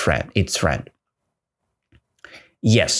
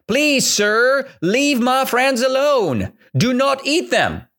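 high, slow, begging voice; the elephant begging the tiger, high and slow; pleading elephant; 9 semitones higher than usual. Acted. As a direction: beg the tiger to spare them. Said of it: "The elephant said".

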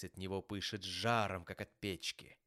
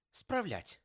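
high-pitched incredulous exclamation; exclaiming; 12 semitones higher, 4 dB louder than usual. A narrator's reading. Nephew echoing his uncle's word, exclaiming. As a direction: throw the word back in astonishment. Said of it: "воскликнул племянник".

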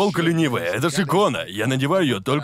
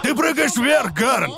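laughing; 10 semitones higher, slower than usual. Real, not acted. Laughing reveal of game answer.

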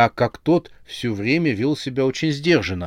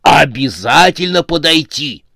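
louder, higher, emphatic resolve; excited insistence; 5 semitones higher, 7 dB louder than usual. A narrator's reading. Fan resolves to approach his idol, excitedly insistent. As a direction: burst out with starstruck determination.

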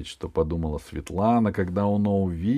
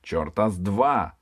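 barbarian. Acted. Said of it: "раздался голос дикаря".

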